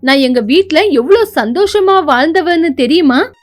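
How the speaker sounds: indignant, arguing back; an arrogant rich wife quarrelling over the old sofa; angry wife. Acted. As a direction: press every complaint with scorn. Wife boasts of her money.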